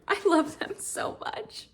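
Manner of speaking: whispered, high and slow; breathy gush. Real, not acted. Reader swooning over the couple, whispered. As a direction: sigh it out in adoration.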